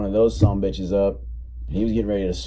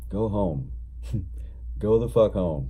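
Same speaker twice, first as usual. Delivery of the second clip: sincere; 5 dB quieter than usual. Retold or imitated. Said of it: "with the most sincerity I've ever seen".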